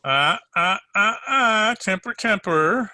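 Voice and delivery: detective mockingly cautions the angry woman; mocking warning. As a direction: wag a finger at her hot temper. Detective stops woman from lunging.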